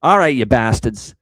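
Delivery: loud, punchy fan rallying cry. Real, not acted. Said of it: "I'll say it again".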